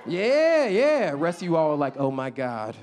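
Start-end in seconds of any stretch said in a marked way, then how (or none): 2.0-2.7 low, slow worried whiner; nervous tourist. Retold or imitated. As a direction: clutch your wallet, timid. Nervous outsiders imitated.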